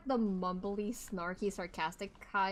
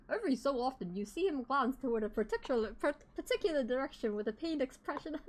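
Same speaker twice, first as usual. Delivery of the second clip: put-on British accent. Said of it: "Herlock's British accent always sends me".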